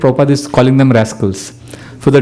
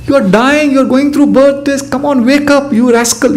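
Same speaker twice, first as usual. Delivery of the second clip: raised, pressing wake-up call; urgent rebuke; 9 semitones higher than usual. Retold or imitated. Preacher voicing the guru scolding a sleeping disciple, higher and urgent. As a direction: shake the sleeper awake, pitched up high.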